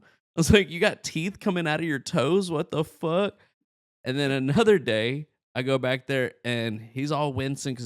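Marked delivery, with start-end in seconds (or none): 0.7-3.4 higher-pitched, incredulous mock outcry; retold disbelief. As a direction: act out baffled disbelief.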